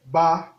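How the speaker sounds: Ba on a level middle tone. Shown as a demonstration. Teacher reading syllables, Ba on mid tone. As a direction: hold Ba evenly in mid voice. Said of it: "Ton moyen".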